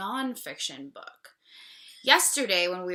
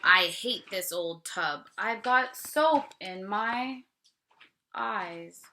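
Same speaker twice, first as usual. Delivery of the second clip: a hint of a complaining cow. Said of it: "the cow cries".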